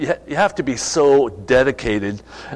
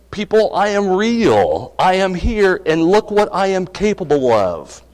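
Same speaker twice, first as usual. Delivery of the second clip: God's proclamation; 5 semitones higher than usual. Retold or imitated. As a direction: announce it as God speaking to people. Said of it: "he was making this statement".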